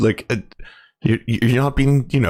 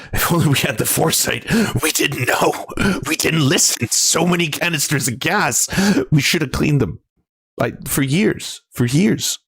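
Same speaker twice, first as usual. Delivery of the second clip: hammed-up regret, higher and breaking up; mock anguish; 3 semitones higher than usual. Host mocking the clean-up-the-forest idea, mock anguished. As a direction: lament it like a disaster survivor, in mock despair. Mock lament over the supposed canisters.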